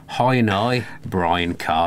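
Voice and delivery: put-on a dreadful Northern Irish accent; a weak Northern Irish accent for the boss; Northern Irish boss impression. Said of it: "I can do a, a good impression of him".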